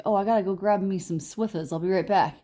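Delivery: lightly imitated New York boyfriend; casual mock New York accent, dropped r's; tough-guy accent. Boyfriend heading off while shopping, light New York accent. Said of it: "He talks like this".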